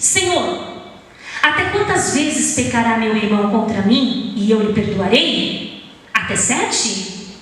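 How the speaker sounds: dramatic scripture reading to help them imagine; expressive reading. Shown as a demonstration. Pastor reading Matthew to the congregation, expressive storytelling. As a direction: read the parable with feeling, as a story. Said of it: "com entonação".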